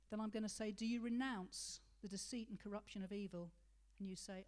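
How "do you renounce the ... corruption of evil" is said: "renounce" carries the weight, the rest even; stressed question. Shown as a demonstration. Pastor shows the congregation the cue word, stress on "renounce". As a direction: mark "renounce" as the word to answer. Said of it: "the word that I put the emphasis on".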